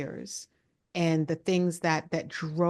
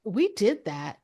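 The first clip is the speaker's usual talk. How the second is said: laughing while talking; 4 semitones higher, 5 dB louder, slower than usual. Retold or imitated. Retells her own reaction, high.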